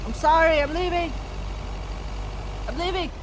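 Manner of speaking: high-pitched, hurried-away apology; nervous apology. Pretend. Apologising to imagined locals while fleeing.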